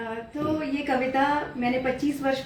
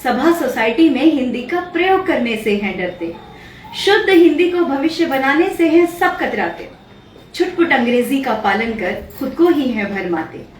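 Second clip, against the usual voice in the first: declaimed verse, much louder than her talk; poem recitation; 10 dB louder than usual. Acted. Poet reciting her poem on Hindi to her host, declamatory recitation. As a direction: recite it out boldly with swinging, rhythmic intonation.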